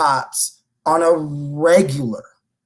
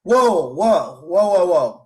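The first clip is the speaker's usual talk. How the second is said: loud, higher stunned stop; stunned whoa; 6 semitones higher, 5 dB louder than usual. Real, not acted. Cohost halting the story in disbelief, loud surprised whoa. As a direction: rein the story in, startled.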